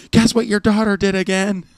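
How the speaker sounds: high yelled question from the shore; mock shout from the shore; yelled call. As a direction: call it out across the water, high and loud. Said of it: "yelling from ashore".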